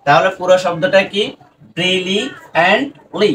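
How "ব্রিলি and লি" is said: "ব্রিলি… and… লি" in separate chunks; broken into parts. Shown as a demonstration. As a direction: sound out "ব্রিলি", "and", "লি" with small gaps. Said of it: "আমাদেরকে ভেঙে ভেঙে উচ্চারণ করতে হবে".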